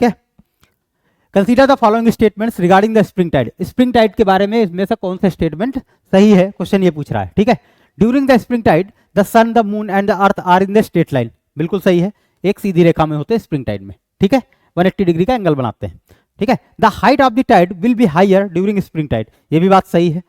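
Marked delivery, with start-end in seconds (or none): 1.3-3.5 slow question read-out. Acted. Reads quiz question aloud. 8.0-11.3 slow option read-out. Acted. Reads quiz option aloud. 16.8-19.3 slow option read-out. Acted. Reads quiz option aloud.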